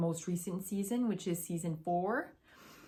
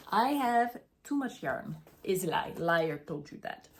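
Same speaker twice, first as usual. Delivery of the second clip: lightly attempted Russian accent; bad Russian accent. Knitter quoting the show to viewers, bad Russian accent. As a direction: have a go at a poor Russian accent. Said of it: "My Russian accent is really not that good".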